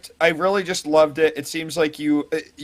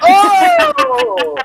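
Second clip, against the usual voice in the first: surprised gasp; 7 dB louder than usual. Real, not acted. Sudden mock-shocked reaction.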